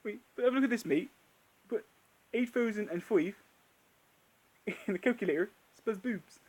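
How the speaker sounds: lightly voiced Merchant, casual; a hint of Steve Merchant; mild mock Merchant; Steve Merchant impression. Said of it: "a tiny bit of Steve Merchant".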